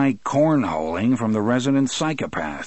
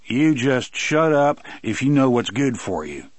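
growled threat; 4 semitones higher, 3 dB louder than usual. Acted. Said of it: "Brutal growled".

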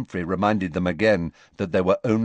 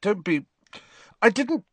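awkward mutter; 12 semitones higher than usual. A narrator's reading. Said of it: "muttered Harry awkwardly".

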